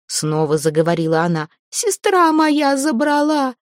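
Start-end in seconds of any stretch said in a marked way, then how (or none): 1.7-3.5 high, drawn-out pleading cry; terrified plea. Acted. Zateya begs the dead Veres, teeth chattering with fear.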